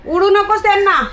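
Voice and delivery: high, loud command; calling out a warning. Real, not acted. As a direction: call out to stop it. Calls out to stop pigeons being chased.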